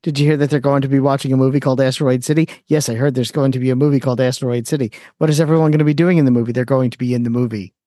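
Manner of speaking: Wes Anderson deadpan. Retold or imitated. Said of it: "everyone talks like this".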